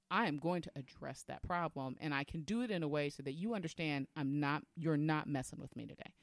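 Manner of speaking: firm, controlled warning without yelling; angry lady voice. Shown as a demonstration. Woman addressing a problem before it grows, firm angry lady voice. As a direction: stand your ground, no yelling. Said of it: "inner angry lady voice".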